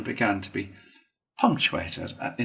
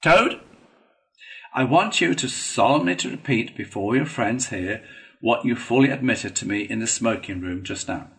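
firm call, then measured dictation; authoritative, deliberate prompting; gratified, solemn Badger; 4 dB louder than usual. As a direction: demand a formal confession.

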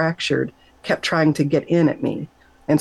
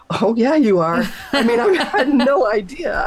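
laughing; 7 semitones higher than usual. Retold or imitated. Laughing reply to God.

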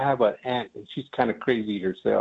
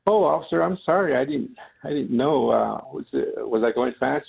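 put-on flustered old man; 3 semitones higher than usual. Old man apologizing to the officer.

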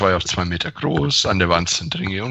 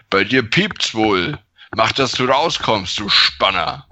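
deep voice. Acted. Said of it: "mit tiefer Stimme".

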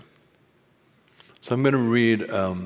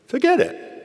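loud, sharp raven outburst; curt raven master; 9 dB louder than usual. Acted. Raven dismissing Badger's question, curt squawk. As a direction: squawk it out abruptly like a caustic raven. Voices Raven's command again.

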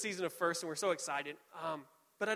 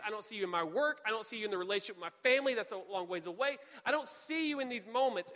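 mild yelling at God; 2 semitones higher than usual. Acted. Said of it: "I need to yell at God".

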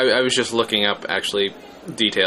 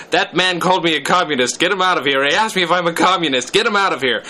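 loud, raised outraged protest; shouting; 7 semitones higher, 5 dB louder than usual. Acted. Reader acting Zero Mostel at the hearing, indignant shouting. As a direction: shout it out, higher and louder. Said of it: "reached for the throat of the huax attorney while shouting".

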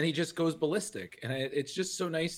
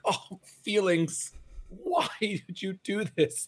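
mock anguish; 7 semitones higher, slower than usual. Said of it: "you're just like".

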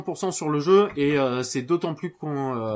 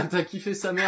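laughing; 4 semitones higher than usual. Real, not acted. Repeats friend's slang, amused.

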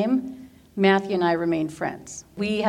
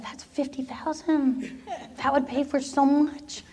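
laughing to herself; 6 semitones higher, 4 dB quieter than usual. Retold or imitated. Thinking greedily about the money.

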